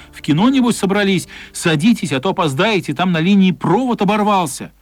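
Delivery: cheerful driver offering a ride; kind driver voice. Acted. Narrator voices kind bus driver.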